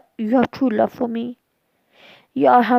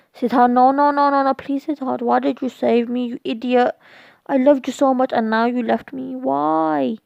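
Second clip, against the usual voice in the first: mild scream. Acted. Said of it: "and Reina screamed".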